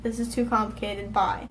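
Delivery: soft, dismissive repeat of his words; quietly mocking his text. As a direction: mumble his message back, unimpressed. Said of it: "repeating his message".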